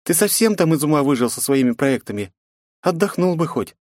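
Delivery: defiant princess. A narrator's reading. Princess mocks her father, defiant. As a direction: tease and defy her father.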